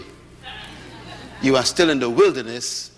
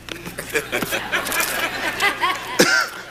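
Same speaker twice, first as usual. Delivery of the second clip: long rising laugh, much higher; 13 semitones higher than usual. Real, not acted. Preacher laughing at his own discovery, high rising laugh. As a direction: let a big laugh climb up.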